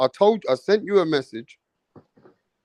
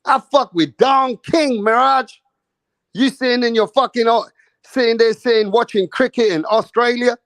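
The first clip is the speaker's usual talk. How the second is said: hammed-up tough-guy brag; 7 semitones higher, 4 dB louder than usual. Imitating Rick Glazier putting Mirage down, hammed-up brag. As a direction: lord it over Mirage as the connected promoter. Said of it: "That's what Rick Glazier should be telling you".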